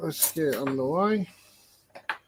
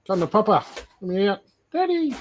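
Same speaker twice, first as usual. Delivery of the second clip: lightly voiced baby snake, squeaky on Daddy; pleading hatchling voice; 5 semitones higher than usual. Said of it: "He's like".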